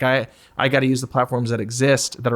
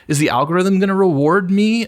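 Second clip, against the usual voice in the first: higher mock-needy question; self-mocking plea, pitched up; put-on pleading voice; 6 semitones higher, 4 dB louder than usual. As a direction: ask it in a lightly silly, begging voice. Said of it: "I don't know why I'm doing that voice".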